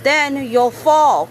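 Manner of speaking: a worried friend crying out; alarmed cry. Acted. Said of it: "cried Raps".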